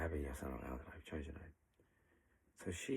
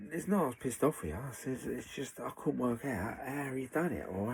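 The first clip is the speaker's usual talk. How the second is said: louder and higher, slowed down to insist; pushing the point, voice raised; emphatic protest; 7 semitones higher, 7 dB louder than usual. Retold or imitated. Telling her he wasn't angry.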